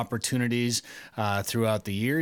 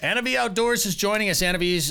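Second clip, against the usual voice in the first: hyped announcer; 9 semitones higher, 4 dB louder than usual. Acted. Hyped show intro.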